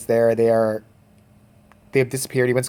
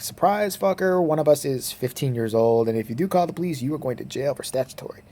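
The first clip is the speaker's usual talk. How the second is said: put-on taunting girls; 2 semitones higher than usual. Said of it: "they're like".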